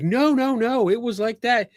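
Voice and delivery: hammed-up denial in a high voice; imitating the woman. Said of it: "she's like".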